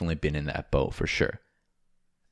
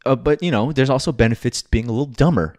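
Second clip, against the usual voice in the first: teasing punchline; 7 semitones higher, 6 dB louder, faster than usual. Real, not acted. Teasing punchline about friend.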